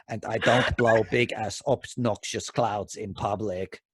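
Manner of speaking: put-on slow, light Russian accent. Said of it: "Why, why the Russian accent?".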